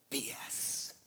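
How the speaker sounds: softened B S, almost unvoiced; hushed initials. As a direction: drop the voice on the initials. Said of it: "he didn't use the initials".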